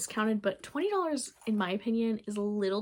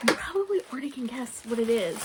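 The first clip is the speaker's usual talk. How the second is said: hushed teasing whisper; 3 semitones higher, faster than usual. Real, not acted. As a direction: whisper it like a secret. Teasing reveal, unvoiced.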